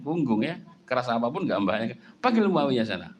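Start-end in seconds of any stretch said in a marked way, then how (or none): 2.2-3.1 mock stern order. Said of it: "Nanti membentak kan?".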